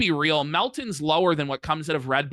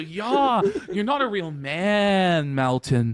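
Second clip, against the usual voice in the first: imitating Coach Red Pill. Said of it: "Coach Red Pill".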